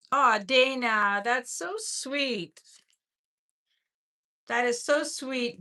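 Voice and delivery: slow, moved thanks, on the edge of tears; real touched gratitude, slowed right down. Real, not acted. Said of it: "I think I'm gonna cry".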